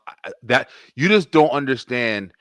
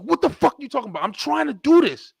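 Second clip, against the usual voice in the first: irritated; 12 semitones higher than usual. Retold or imitated. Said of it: "I got pissed with her".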